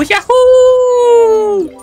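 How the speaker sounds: high, loud cheer; excited yahoo. Real, not acted. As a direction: whoop with joy mid-jump. Surfing jump, cheering.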